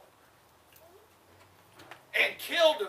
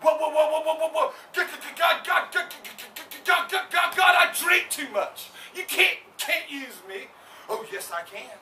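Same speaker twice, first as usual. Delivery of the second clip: loud, higher panicked shouting; frantic protest; 4 semitones higher, 3 dB louder than usual. Acted. Preacher acting a sinner shouting to God he's unworthy. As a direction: plead frantically you're unworthy.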